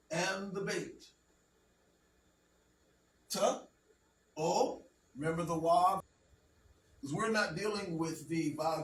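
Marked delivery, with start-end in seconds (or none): 3.3-3.6 "Ta" as a lone short syllable; isolated teaching syllable "Ta"; sounded out. Shown as a demonstration. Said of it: "You just need to know the sounds". 4.4-4.8 "o" as a lone long vowel; isolated teaching vowel "o"; sounded out. Shown as a demonstration. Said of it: "Wav has the O or U sound".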